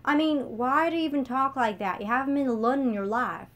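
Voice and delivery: mock Miss Abby's British accent, badly on purpose; crude British accent mockery. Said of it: "She crudely imitated Miss Abby's accent".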